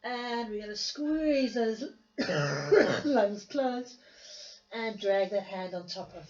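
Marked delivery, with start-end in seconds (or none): 2.2-3.0 sharp dry cough; real cough. Real, not acted. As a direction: cough hard. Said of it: "I'm so sorry for the coughing".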